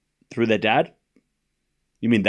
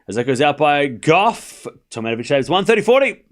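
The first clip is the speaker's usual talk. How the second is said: live play-by-play. Real, not acted. Tennis streamer calls a saved point, live play-by-play. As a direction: stretch the shot, then punch the score.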